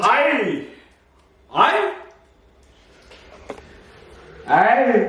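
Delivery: a high, mock Scottish aye. Husband chimes in with a mock Scottish aye. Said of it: "Aussie's trying to say aye".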